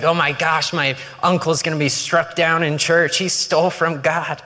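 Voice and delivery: put-on a kid shocked his uncle stole from God; horrified pious little boy. A boy horrified at his uncle in church, mildly alarmed. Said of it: "He's like".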